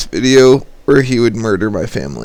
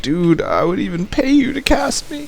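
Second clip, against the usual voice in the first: eager high plea; 12 semitones higher, 4 dB quieter than usual. Retold or imitated. Corey begging in retold chat.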